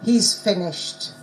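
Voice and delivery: "He's finished" slow with a falling statement tune; statement intonation. Shown as a demonstration. Teacher quizzing the class on tones, "He's finished" as a slow falling statement.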